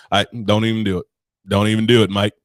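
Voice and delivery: low-pitched, badly faked Aussie bloke; shitty Australian accent. Mimicking the bartender warning him off, shitty Australian accent. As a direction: do a poor Australian barman. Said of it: "here go my shitty Australian accent".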